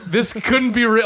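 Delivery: high, loud, drawn-out amazement; excited disbelief. Retold or imitated. Fan reliving the climax, high excited disbelief. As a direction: stretch it out, overwhelmed with excitement.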